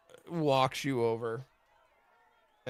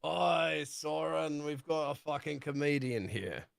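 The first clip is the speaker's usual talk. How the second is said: scoffing captain; 3 semitones higher than usual. Acted. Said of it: "He's like".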